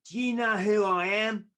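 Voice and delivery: loud, high-pitched retold outrage; indignant outburst. Club manager to the doorman who stopped him, indignant. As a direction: pull rank at full volume.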